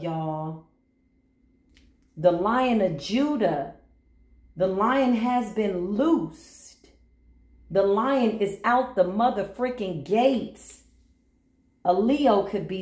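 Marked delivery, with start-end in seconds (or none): 2.2-10.8 slow proclamation. Pretend. Proclaiming the lion loosed.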